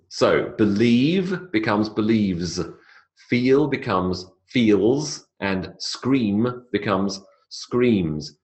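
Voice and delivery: slow, the final z in "believes", "feels" and "screams" stretched; slow teaching demo. Shown as a demonstration. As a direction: spell each ending out for the class. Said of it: "it is a voiced Z".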